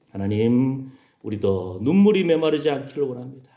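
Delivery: hushed opening, then earnest prayer; solemn prayer. Real, not acted. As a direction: lead the congregation gently into prayer.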